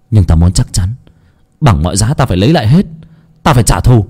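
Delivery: mild hot-headed vow of revenge; vengeful vow. Acted. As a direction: swear you will take it all back. Vowing revenge to the shadow.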